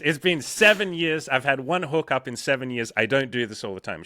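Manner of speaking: loud, high laughing outburst; excited outburst. Real, not acted.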